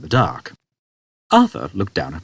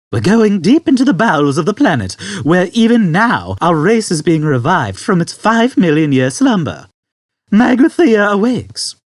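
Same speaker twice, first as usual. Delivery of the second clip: put-on solemn old man; 10 semitones higher, 6 dB louder than usual. Old man to Arthur, high and grave. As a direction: proclaim the awakening gravely.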